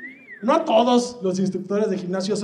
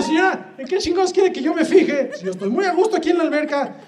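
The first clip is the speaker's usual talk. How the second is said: exasperated retort; 5 semitones higher than usual. Retold or imitated. Retorts to the angry mother.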